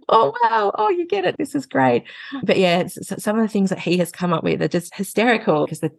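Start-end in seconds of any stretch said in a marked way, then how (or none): 0.1-2.0 high, delighted squeal of approval; mock excited. Mother replaying her delight at her husband. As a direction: gush it up high like a thrilled fan. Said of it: "And I was like".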